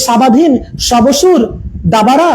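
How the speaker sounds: mock misreading with an extra "ba" syllable in দাবারা; wrongly voiced ব. Shown as a demonstration. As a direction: sound the silent ব in স্বাবাধীন, সবসুর, দাবারা as a full "ba". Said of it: "এরকম তো আমরা বলি না".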